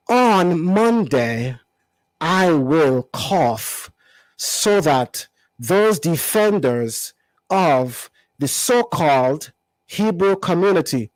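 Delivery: very slow, drawn-out mock African accent; his accent. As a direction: drag every word out in his accent. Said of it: "read it in his language a little better".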